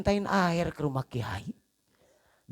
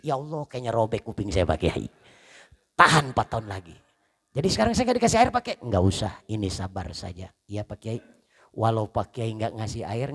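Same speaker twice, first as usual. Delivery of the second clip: acted kiai and guest; 4 semitones lower than usual. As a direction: play both kiai and the nagged husband gently.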